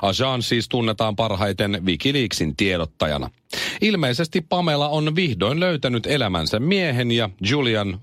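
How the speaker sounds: deadpan radio news read. Acted. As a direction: deliver the joke straight like news. Reads final news item. (kuivakka uutisluenta)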